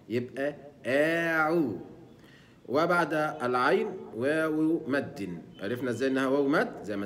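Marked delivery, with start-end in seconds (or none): 0.9-1.8 آعو slowly, light ain, lips rounded while smiling; light ain with damma. Shown as a demonstration. Teacher modelling عو in أعوذ. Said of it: "ينطق الحرف مرققًا مع الضم".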